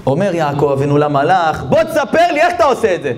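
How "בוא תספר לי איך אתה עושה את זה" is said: high-pitched, urgent questioning; insistent demand. Acted. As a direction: press the angel for the secret, voice raised high. Jacob confronting the angel. (דרישה נחרצת בקול גבוה)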